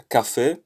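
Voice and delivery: Café with extra emphasis on its accented é; stress on final syllable. Shown as a demonstration. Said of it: "should be stressed".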